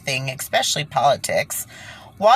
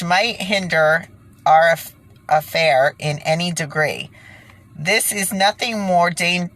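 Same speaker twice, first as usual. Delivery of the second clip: document read-aloud. Acted. Reading quoted document aloud.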